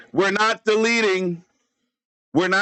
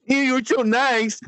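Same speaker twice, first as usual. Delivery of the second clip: mock-grateful voice, pitched up; 4 semitones higher than usual. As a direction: lightly put on a high, gushing thank-you. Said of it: "the freaking D J's like".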